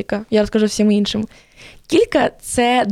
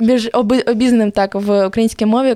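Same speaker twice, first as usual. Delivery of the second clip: ordinary delivery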